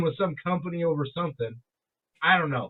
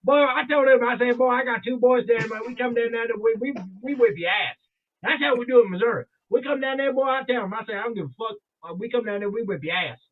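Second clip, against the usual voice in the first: put-on deep Southern accent; 4 semitones higher than usual. Host repeating the stranger's threat, imitated deep Southern accent. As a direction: mimic a boastful Southern good old boy. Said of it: "He said it just like that".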